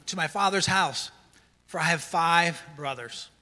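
measured, emphatic reading aloud; scripture reading. Acted. Preacher reading the rich man's plea to Abraham, emphatic scripture reading. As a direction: read it out with weighty stresses and pauses.

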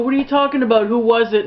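imitating a jealous husband flaring up; retelling his outburst in a mild mock yell; mock freak-out. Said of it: "he freaks out".

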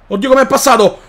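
laughing disbelief. Real, not acted. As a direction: laugh through the words. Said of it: "repeated with laugh".

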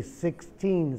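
"sixteen" with a sounded final n; clear teen ending. Shown as a demonstration. Teacher contrasting "sixteen" with sixty. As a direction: finish "sixteen" on the n. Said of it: "igual con forty".

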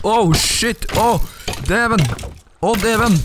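high excited cries; excited yelp. Real, not acted. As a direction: squeal with surprise at the find. Excited gamer shouting at find.

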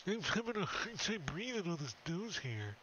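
put-on goblin voice, struggling for breath; choked-up goblin. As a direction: complain as if smothered in nose hair. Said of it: "He's like".

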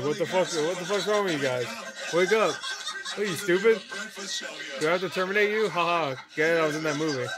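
hammed-up shouting in character; acted angry outburst. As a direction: yell it like a movie tough guy. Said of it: "and then he's like".

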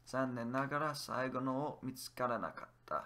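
whispered Japanese sentence, no voice; hushed practice line. Shown as a demonstration. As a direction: breathe the whole line as a whisper. Teacher whispers full sentence.

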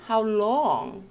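"how long" read with firm emphasis; strong stress. Shown as a demonstration. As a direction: hit "how long" hard, drawing out "long". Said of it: "강하게 읽으실 부분".

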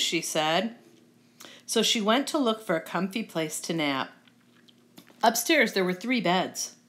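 lively, well-projected storytelling; storybook narration. A narrator's reading. Reader telling children the Goldilocks tale, lively storybook narration. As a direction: read it out like a picture book.

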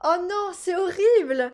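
slow, loud, dramatic wail of dismay; hammed-up despair; mock dismay. Real, not acted. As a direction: overplay the horror. Reads the baby's bad trait.

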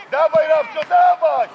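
loud, pushing shout of encouragement; urging shout. Real, not acted. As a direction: drive the player forward. Coach urging player on. (głośny, ponaglający okrzyk)

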